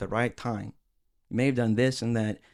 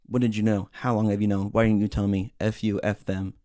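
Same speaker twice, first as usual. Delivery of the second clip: angry phone rant; 3 dB louder than usual. Retold or imitated. Imitating her angry phone call.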